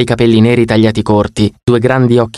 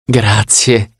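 gloating. Acted. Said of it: "gongolò".

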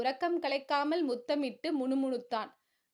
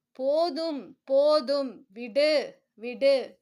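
louder firm hushing; firm soothing; 5 dB louder, much slower than usual. A narrator's reading. Husband firmly calming his sobbing wife. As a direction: hush her down firmly.

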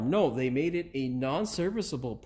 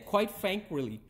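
slow careful retake; 4 semitones higher, 3 dB quieter, slower than usual. Shown as a demonstration. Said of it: "fuck, I did it again".

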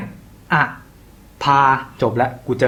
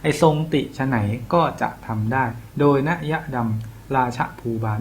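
coaxing; 5 dB quieter than usual. Shown as a demonstration. Tutor showing the feeling of a verse, coaxing recitation. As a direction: recite it gently, as if pleading. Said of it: "พูดอ้อนๆหน่อย".

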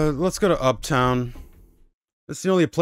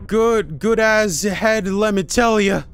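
Flanders impression; 4 semitones higher, slower than usual. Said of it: "something's off about your inflection".

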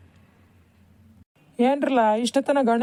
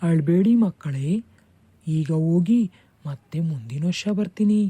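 voice of god Ganesha; 8 semitones lower than usual. Acted. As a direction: speak as the deity comforting the children. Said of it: "ನಿನಗ್ ಕೇಳಿಸ್ತೇನೋ ಗಣೇಶ ಹೇಳಿದ್ದು?". (ಕೆಳ ಧ್ವನಿಯ ದೈವಿಕ ಆಶೀರ್ವಾದ)

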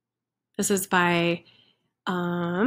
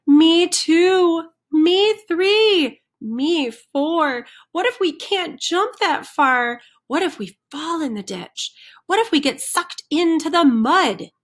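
higher, worried chicken chorus; fretting chickens; 7 semitones higher, 3 dB louder than usual. Acted. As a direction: pile on the what-ifs nervously.

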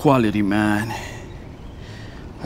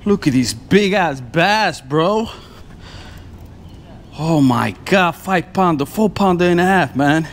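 excited; 5 semitones higher than usual. Real, not acted. Showing off a big bass.

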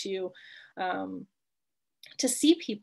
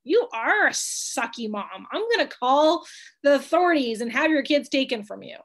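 harsh mock reply; 4 dB louder than usual. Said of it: "You're not gonna ... say to your best friend".

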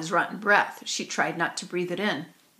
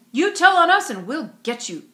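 higher, louder menacing warning; threatening; 8 semitones higher, 8 dB louder than usual. A narrator's reading. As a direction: warn her off with a bully's threat. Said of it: "threatened Brian".

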